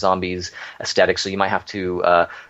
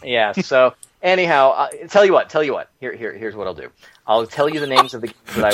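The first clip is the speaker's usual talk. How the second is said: used car salesman. Acted. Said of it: "you sound like a used car salesman".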